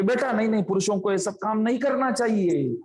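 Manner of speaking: a mother loudly refusing her son's help; retold loud protest. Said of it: "जोर से बोलती है".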